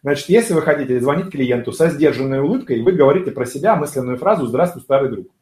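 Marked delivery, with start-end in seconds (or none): 4.5-5.3 restrained smile. Shown as a demonstration. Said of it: "сдержанная улыбка".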